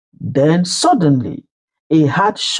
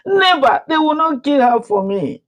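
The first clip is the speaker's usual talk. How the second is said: very high, pleading outcry; desperate cry; 10 semitones higher than usual. Acted. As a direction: refuse it with all her heart. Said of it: "she screamed".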